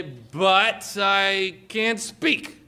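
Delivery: very slow, put-on whining excuse; whiny excuse. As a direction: drag out the excuse like a reluctant kid. Mock excuse voiced for listener.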